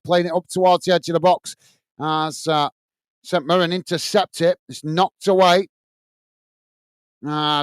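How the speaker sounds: steady play-by-play of the match; match commentary. Acted. Fan channel host calling the match live, commentary voice. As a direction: call the action as it happens.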